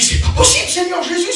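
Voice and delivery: soufflé, très aigu, presque sans voix; s'étonner devant la précision de Dieu; stupéfait. Real, not acted. Stunned by God's precision. (stupeur soufflée et très aiguë)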